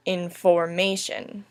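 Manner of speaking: in-for-MA-tion, slow, stresses on IN and MA; syllable-by-syllable stress. Shown as a demonstration. Teacher sounding out a four-syllable word, stressed IN-for-MA-tion. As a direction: sound out Information slowly, stressing IN and MA. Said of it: "first has a stressed, an unstressed, a stressed".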